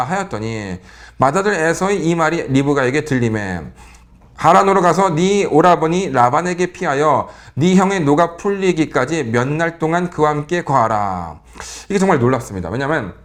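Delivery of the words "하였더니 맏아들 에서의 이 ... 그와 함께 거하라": slow, measured Bible reading; preacher reading scripture slowly to the congregation. Acted. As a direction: read the verse slowly and solemnly.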